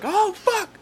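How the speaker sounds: very high, loud squealed swearing; re-enacted high-pitched playful shouting; retold excited yelling. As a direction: hype up the cat with mock screams. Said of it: "I was just like".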